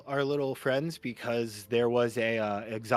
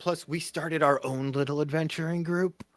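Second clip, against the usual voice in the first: lightly voiced, higher in-character reply; 5 semitones higher than usual. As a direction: answer in character, pitched a little up. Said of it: "She goes".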